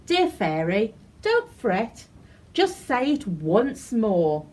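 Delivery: slow, gentle and kind; slow kind encouragement; kindly reassuring. Acted. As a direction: soothe your upset friend. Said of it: "The bunny said kindly".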